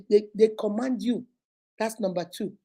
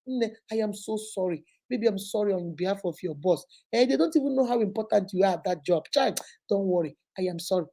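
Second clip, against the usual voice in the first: quiet, tender consoling; calm him down gently; soothing wife; 3 semitones lower, 5 dB quieter than usual. Retold or imitated.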